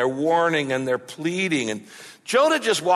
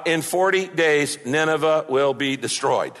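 matter-of-fact announcement. Retold or imitated. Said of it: "announces it in a matter-of-fact tone".

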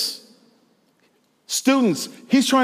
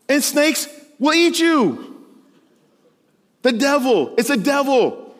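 slow, higher menacing snake voice; snake impression; 7 semitones higher than usual. Preacher warns youth the devil is a snake, snake voice. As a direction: hiss it out like a snake closing in. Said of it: "That's my snake impression".

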